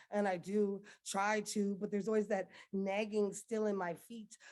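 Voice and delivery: intense, rhythmic poetry slam delivery; rising anguished spoken word, building in force; spoken word poem. Acted. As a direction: perform it like a slam poem to your country.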